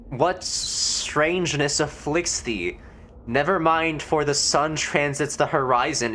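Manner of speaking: lightly voiced stiff archaic gentleman; mild mock thee-and-thou formality; old-fashioned formal. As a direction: speak like a stuffy Elizabethan landlord. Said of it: "When did you start talking like this?".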